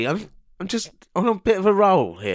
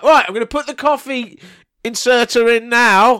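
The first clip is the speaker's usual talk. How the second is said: mock Paul; 4 semitones higher, 3 dB louder than usual. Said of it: "Paul, you'd be like".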